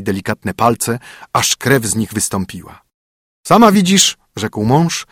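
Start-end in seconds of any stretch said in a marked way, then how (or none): 3.5-4.2 a bit louder, commanding husband; brisk, bossy husband; stern husband. Acted. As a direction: lay down the rules to the spoiled princess. Husband voice again.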